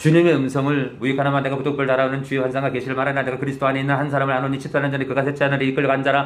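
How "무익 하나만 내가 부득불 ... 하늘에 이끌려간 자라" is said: racing, very rushed, rattled-off reading, very fast. Reading a bible passage very fast, in contrast to reading slowly. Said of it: "이런 속도로 나가다가는".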